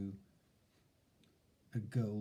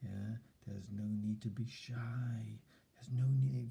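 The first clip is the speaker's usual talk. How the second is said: put-on encouraging child. Shown as a demonstration. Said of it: "they need a little bit of encouragement".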